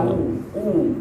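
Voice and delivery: "wawu, u" with lips pushed forward; pursed lips. Shown as a demonstration. Teacher models dhammah for students, lips pursed. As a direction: pout the lips firmly for the "u" in "wawu, u". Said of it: "mencucu, monyong".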